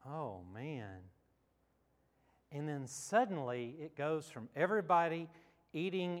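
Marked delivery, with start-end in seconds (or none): 0.1-1.1 low, soft sinking reaction; quiet dismay. Retold or imitated. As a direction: say it under your breath, pitched well down. Acts out his dismay in dream.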